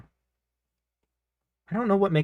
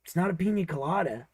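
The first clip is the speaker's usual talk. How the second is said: Tucker; 2 semitones higher than usual. Acted. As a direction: play a chatty cartoon character, pitched up. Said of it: "this is Tucker, which is this voice".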